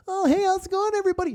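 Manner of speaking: hammed-up cheesy host hello; mock emcee greeting. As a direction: parody of a stage announcer greeting the crowd.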